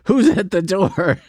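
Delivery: hammed-up shout to the door; mock yell. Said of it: "he stops chewing for a second and yells".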